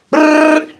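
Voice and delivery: high trilled "brrr"; imitated ball rattle.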